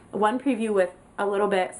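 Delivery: talking with hair in mouth; words blocked by hair in mouth. Real, not acted. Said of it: "sorry, I have hair in my mouth".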